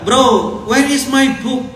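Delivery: high, loud mock English with a thick regional accent; heavy local accent English. An ustaz mimics a student asking in heavily accented English.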